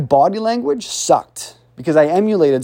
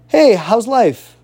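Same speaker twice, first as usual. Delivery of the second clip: pitched-up, drawn-out friendly hello; upbeat greeting; 4 semitones higher, 4 dB louder, slower than usual. Acted. Coach playing someone greeting a depressed person, upbeat. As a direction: greet them brightly, stretching it out.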